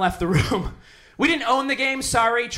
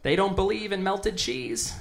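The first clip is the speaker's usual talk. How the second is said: fake polite excuse; 4 dB quieter, slower than usual. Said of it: "I'm like".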